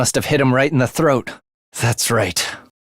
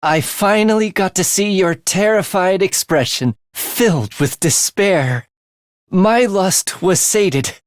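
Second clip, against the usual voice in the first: gloating relish; 5 semitones higher than usual. Acted. Killer gloats to victim.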